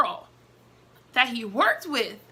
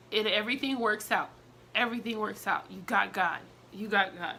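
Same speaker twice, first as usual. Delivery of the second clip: calm her down like a pastor's wife; soothing comfort. Retold or imitated. Pastor's wife comforting the sobbing bride, gently reassuring. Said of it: "she was like".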